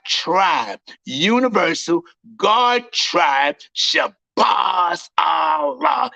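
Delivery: slow, swelling preacher's cry; preaching at full force. Acted. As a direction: build it up like a street preacher proclaiming. Preaching to the crowd.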